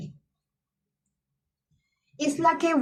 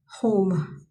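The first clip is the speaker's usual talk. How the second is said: whispered; 3 semitones lower than usual. Real, not acted. Praising the creator who makes her feel home, whispered. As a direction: breathe the word home out without voice.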